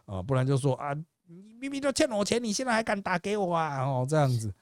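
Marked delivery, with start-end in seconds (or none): 0.8-3.8 high-pitched mock indigenous Taiwanese accent; caricatured indigenous Taiwanese accent, indignant; imitated Taiwanese indigenous accent. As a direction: confront a debtor in a put-on indigenous Taiwanese accent. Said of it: "他在学原住民讲话".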